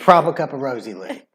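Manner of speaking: playful British accent demo. Shown as a demonstration. Demonstrating for Tiffany to copy, British accent. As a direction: put on a cheeky British accent. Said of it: "say it first so I can copy you".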